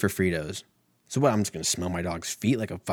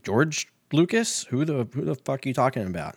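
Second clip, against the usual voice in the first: confused; 5 semitones higher than usual. Retold or imitated. Confused retort in story.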